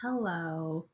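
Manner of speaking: muffled, boxy mic sound; like talking from inside a box. Real, not acted. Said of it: "you sound like you're in a box".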